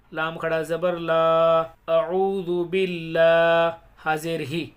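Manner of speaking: slow, measured syllable-by-syllable chant; elongated Arabic recitation for learners; Quran spelling recitation. Shown as a demonstration. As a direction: spell out each syllable, then recite it joined, long vowels held. Hijja spelling and recitation demo.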